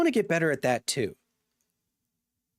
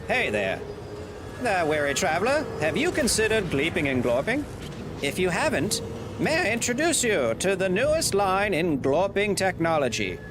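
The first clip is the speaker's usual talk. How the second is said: lightly hammed-up ad pitch, a touch higher; mock salesman pitch; 3 semitones higher than usual. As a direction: sell the glorping line like a cheesy ad.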